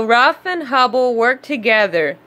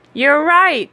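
happy; 4 semitones higher, 3 dB louder than usual. Acted. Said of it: "said Lottie happily".

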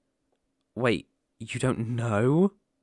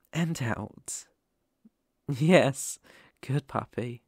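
guided breathing; slower than usual. Acted. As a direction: talk them through each breath gently. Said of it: "let's calm you down".

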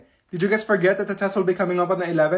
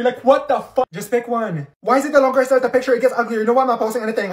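fast, loud and high rant; stressed rant; 4 semitones higher, 6 dB louder, faster than usual. Acted. Student frets over which photo to post, fast and loud. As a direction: rattle it off, frazzled.

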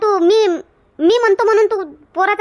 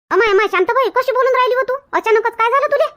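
higher-pitched, startled protest; taken aback; 5 semitones higher than usual. Acted. Kamla questions Shantabai's sudden outburst, taken aback.

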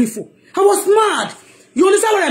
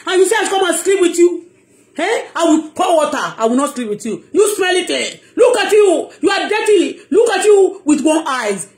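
mocking the pastor; 5 semitones higher than usual. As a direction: sneer like a boastful preacher. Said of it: "He said".

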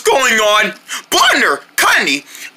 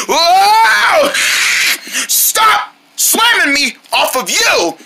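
shouted protest; 6 semitones higher, much slower than usual. Acted. Armadillo bucking rider.

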